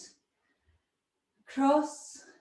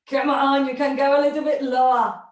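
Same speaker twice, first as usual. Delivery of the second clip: louder, fast coaxing push; fast, louder coach's urging; encouraging push; 6 dB louder, faster than usual. Real, not acted. Coach pushes class lower.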